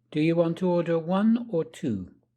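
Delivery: pitch rises on 1, falls on 2. Language lesson modelling choice questions for learners to repeat, rising then falling intonation. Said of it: "make your voice go up and then down".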